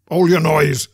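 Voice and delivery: sudden menacing shout; terrible voice cry. A narrator's reading. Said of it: "cried a terrible voice".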